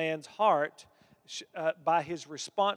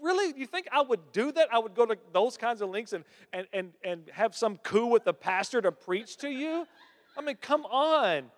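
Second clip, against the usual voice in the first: much higher, incredulous pleading; can you believe her, pitched way up; exasperated daughter; 6 semitones higher than usual. Retold or imitated. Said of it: "my friend's like".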